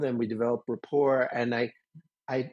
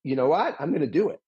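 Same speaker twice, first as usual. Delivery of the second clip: defiant; faster than usual. Retold or imitated. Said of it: "my inner rebel wants to say".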